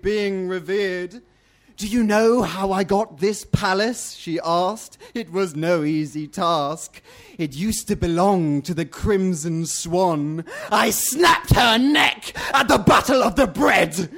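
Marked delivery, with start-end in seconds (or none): 1.8-4.1 scratchy, commanding ruler; scratchy duck voice. Acted. Red Duck quizzing the bat about her palace, scratchy. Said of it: "The duck's scratchy voice". 5.1-14.1 scratchy boast building to a loud roar; scratchy duck voice. Acted. Red Duck boasting of slaying her rival, scratchy. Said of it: "The duck's scratchy voice".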